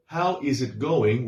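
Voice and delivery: "How is it going?" said slowly with each word separate; deliberate textbook reading; full written form. Shown as a demonstration. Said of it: "more like".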